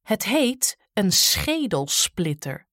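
slow, lightly voiced giant. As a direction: drawl the name of the axe. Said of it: "zei Grim".

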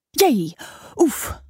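short, mildly pained yelps, held in; high, muffled "oof"; muffled cries. A narrator's reading. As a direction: let out a stifled little cry. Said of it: "de gedempte kreten".

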